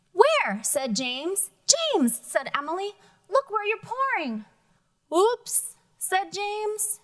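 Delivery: lively storybook reading with character voices; reading to children. Acted. Teacher reading a picture book to the class, lively. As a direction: read it aloud to the class, bright and lively.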